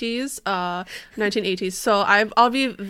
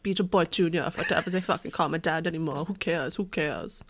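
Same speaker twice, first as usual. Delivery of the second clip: slacker voice. Acted. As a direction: shrug it all off like a slacker. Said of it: "he's, like, a slacker".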